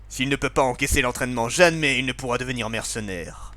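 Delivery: voix virile de père; virile father voice. Acted. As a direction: play the gruff stern dad. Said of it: "on va faire une voix plus virile".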